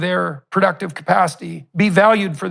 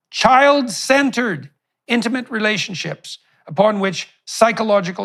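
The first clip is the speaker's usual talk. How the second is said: formal speech; 2 semitones higher than usual. Real, not acted. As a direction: pose a solemn policy question. Reads out prepared question.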